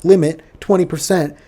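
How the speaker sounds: loud, high, alarmed protest to the judge; mock freaked-out shout. Imitated player yelling to the judge, loud and alarmed. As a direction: yell it like you've been blinded. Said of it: "He's freaking out".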